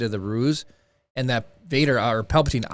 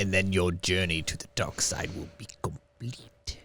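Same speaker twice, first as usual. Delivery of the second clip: hushed, breathy, taunting whisper; 4 semitones lower, 9 dB quieter than usual. Asked to do the voice of the Emperor taunting Luke: Sidious voice. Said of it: "Do the just do Sidious saying that?".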